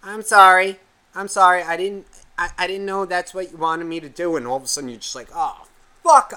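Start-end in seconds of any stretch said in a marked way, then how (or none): 0.0-4.3 put-on high, plaintive little-kid voice; imitated sorry kid. Kid apologises to the cursing player, high imitated child voice. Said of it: "hear this voice come in and go". 5.3-6.3 louder, higher mock-horrified curse; retold dismay. Player realises he cursed at a kid, retold dismay.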